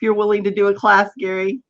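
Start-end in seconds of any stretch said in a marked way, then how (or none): none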